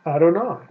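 Adonai, stress on the last syllable: ah-doh-NAI. Shown as a demonstration. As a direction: say Adonai, clear and complete. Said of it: "and they would say".

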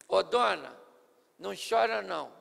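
calmo e suave, sem pressa; terno. Shown as a demonstration. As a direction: console a mãe com carinho. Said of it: "Foi mais ou menos assim". (Jesus consolando a viúva com ternura)

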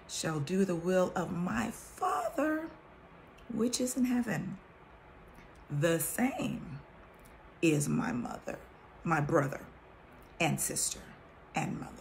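measured King James reading voice; scripture reading. Acted. Reading the Bible to her viewers, solemn scripture voice.

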